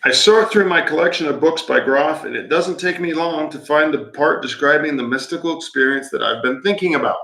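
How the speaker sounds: measured book-reading delivery; reading aloud. Acted. Reading a book passage to a co-host, measured narration. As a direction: read it out evenly, phrase by phrase.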